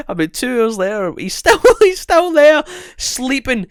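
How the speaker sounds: high, loud, laughing; can't keep a straight face; laughing through it. Real, not acted. Telling his friend about Wiley, laughing.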